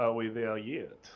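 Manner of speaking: put-on French accent. Asked by another player to say it in a French accent. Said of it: "you have to say it with a French accent".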